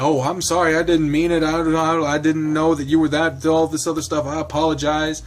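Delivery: playing sorry with a wink; lightly voiced sheepish apology; mock apology. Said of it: "Steve just totally is just like".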